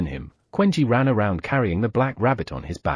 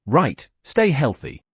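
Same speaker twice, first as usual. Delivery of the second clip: slow blessing; 2 semitones higher, slower than usual. Acted. Sejuan giving blessings.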